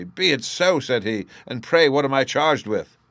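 reckless resignation. Acted. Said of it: "reckless air of a man".

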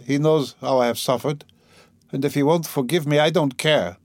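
a touch of weary defiance from the deathbed; lightly voiced dying mother. Dying mother refuses the priest, lightly voiced defiance.

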